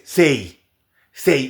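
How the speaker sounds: "say" with the final v swallowed; wrong "say" for save; "save" cut to "say"; dropped v. Shown as a demonstration. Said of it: "se comen el v".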